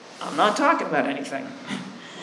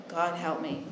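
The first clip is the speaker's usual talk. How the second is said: softer murmured plea to God; quiet prayer; 2 semitones lower, 12 dB quieter than usual. Retold or imitated. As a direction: pray it under the breath.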